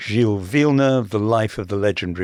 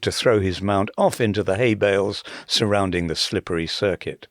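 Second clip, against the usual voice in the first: reading a quote. Shown as a demonstration.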